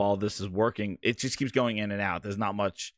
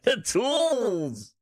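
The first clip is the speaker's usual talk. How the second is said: high pitched voice changer; 11 semitones higher than usual. Real, not acted. Voice changer glitching mid stream.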